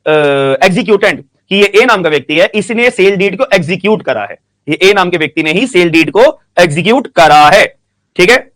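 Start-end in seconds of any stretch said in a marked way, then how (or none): 4.7-7.7 deliberate, phrase-by-phrase explanation; slow for note-taking. Real, not acted. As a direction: take it slowly so students can write. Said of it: "मैं इसलिए धीरे धीरे बोल रहा हूं". (धीरे-धीरे, लिखवाने के अंदाज़ में)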